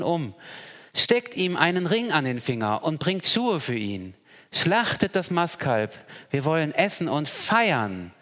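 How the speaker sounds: lightly voiced rejoicing father; joyful father. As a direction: call out to the servants in joy. Father's joyful command in reading.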